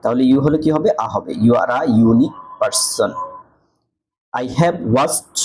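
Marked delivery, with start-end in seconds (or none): 1.4-3.1 slow demo reading. Shown as a demonstration. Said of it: "ইউ উচ্চারণ হয়েছে".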